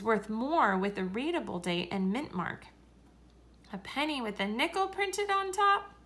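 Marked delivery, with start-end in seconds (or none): 3.7-5.9 amazed question. A narrator's reading. Child amazed at a penny with a nickel on top, wondering. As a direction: marvel at the odd coin.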